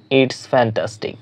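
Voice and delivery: slow, awed whisper; slow whispered model of the phrase. Shown as a demonstration. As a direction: breathe it out as if amazed. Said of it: "খুবই অসাধারণ জিনিস দেখেছেন".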